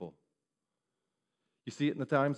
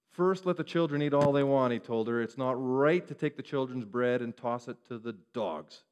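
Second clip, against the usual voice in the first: harsh; 4 dB louder than usual. Retold or imitated. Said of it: "Jesus spoke harshly to her".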